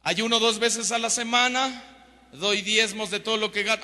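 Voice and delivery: lightly acted boastful prayer; proud Pharisee. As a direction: recite good deeds with some self-righteous push. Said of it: "el orgullo y la soberbia del fariseo".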